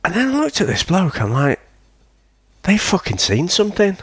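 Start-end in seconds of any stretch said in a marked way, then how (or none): 2.6-4.0 higher, half-shouted alarm. Retold or imitated. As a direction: blurt it out as the fish scatter. Fish flee, sensing danger.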